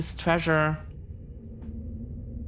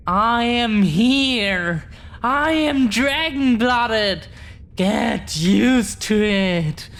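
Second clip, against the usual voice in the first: louder, slow and proud, claiming who she is; proud declaration; 2 semitones higher, 3 dB louder than usual. Acted. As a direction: say it with defiant pride, daring him to object. Proud dragon-blood declaration.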